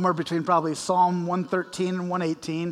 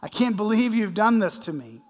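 mock shocked dismay; 2 semitones higher than usual. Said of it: "Jesus goes, gasps".

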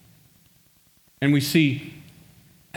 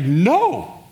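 loud, pleading protest, higher and slower; crying out; 5 semitones higher, 5 dB louder than usual. Retold or imitated. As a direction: Peter begs him not to, loud and urgent. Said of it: "cries out".

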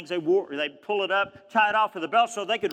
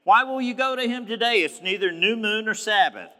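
mock-exasperated typical man; dismissive husband; 4 semitones higher than usual. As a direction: scoff like a husband who doesn't see the point. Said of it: "typical man".

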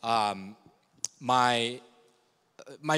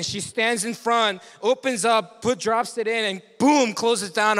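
rising exasperation; 7 semitones higher, 3 dB louder than usual. Retold or imitated. Building retelling of mom's trash can.

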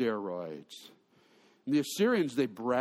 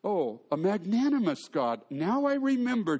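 sarcastic Jonah; 5 semitones higher than usual. Retold or imitated. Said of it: "Jonah says".

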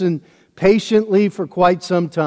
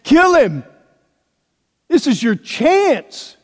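high, loud cry of an urging mob; mob shout; 10 semitones higher, 5 dB louder, slower than usual. Retold or imitated. The mob behind David urging him to strike Saul, loud shouting. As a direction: shout it like a crowd egging him on.

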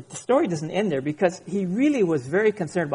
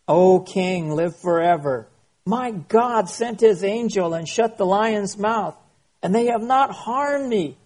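scripture reading; 2 semitones higher than usual. Acted. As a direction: proclaim Daniel's reply with conviction. Reads Daniel's reply.

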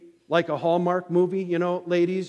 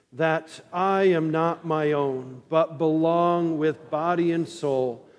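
unison catechism recitation. Acted. Congregation recites catechism with pastor.

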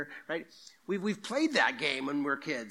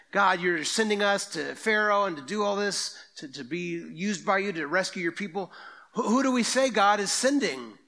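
louder and higher, urgent questioning; Moses pleading; 6 semitones higher, 6 dB louder than usual. Acted. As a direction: plead with God, pushing the voice up.

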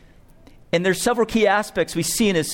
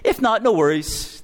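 casual; 3 semitones higher than usual. Retold or imitated. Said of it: "not casually saying".

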